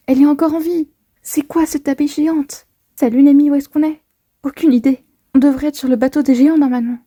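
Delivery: lightly voiced Nami; voicing Nami. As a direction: play Nami waking up confused. Reads Nami's lines.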